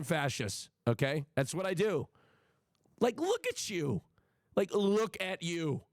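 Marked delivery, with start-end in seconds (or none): 3.0-5.8 mock contempt. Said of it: "That's what I wanted to say".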